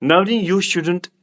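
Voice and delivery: each word drawn out slowly for students; slow, deliberate model sentence; slow teaching demo. Shown as a demonstration. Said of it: "मैं इस तरह बोलूँगा".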